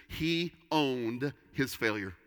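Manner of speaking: slow, weighted statement of the point; slow and deliberate. Shown as a demonstration. Pastor stating his first point to the congregation, slow and deliberate. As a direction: lay "He owned his failure" down slowly, word by word. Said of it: "The first one simply is this".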